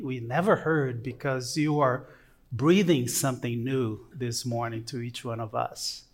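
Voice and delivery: quiet, earnest prayer to the Father. Real, not acted. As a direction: pray softly to the Lord. Pastor leads a prayer.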